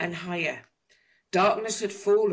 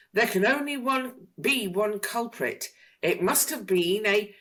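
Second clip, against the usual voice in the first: Mister Clever's voice; 6 semitones higher than usual. A narrator's reading. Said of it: "said Mister Clever".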